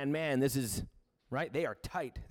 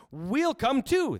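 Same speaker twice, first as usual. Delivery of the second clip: slow eager reply; 10 semitones higher, 5 dB louder, much slower than usual. Acted. Disciples voiced agreeing.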